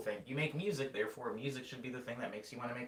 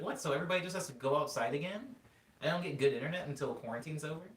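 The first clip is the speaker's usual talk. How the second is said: incredulous protest; 6 semitones higher, 3 dB louder, faster than usual. Retold or imitated. Protesting to the repairman.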